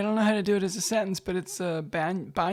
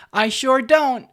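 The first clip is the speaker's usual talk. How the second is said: Southern drawl; 6 semitones higher, 11 dB louder, slower than usual. Retold or imitated. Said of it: "My answer would be".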